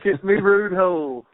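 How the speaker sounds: high, loud mock Australian accent; hammed-up accent attempt. Guest clowning after losing the accent, hammed-up mock Australian accent. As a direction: push a silly Aussie accent high and loud.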